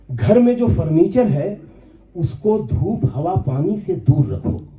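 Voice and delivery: lifted, measured mushaira delivery; poem recitation. Acted. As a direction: recite the couplet with pauses for the audience. Recites his nazm. (मुशायरे के अंदाज़ में नज़्म पाठ)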